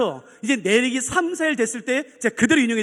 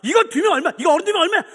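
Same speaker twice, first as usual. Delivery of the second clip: high, insistent mock holler; raised, exasperated old customer; retold shouting; 6 semitones higher, 4 dB louder than usual. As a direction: yell past the manager's apology. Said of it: "하도 소리 지르니까요".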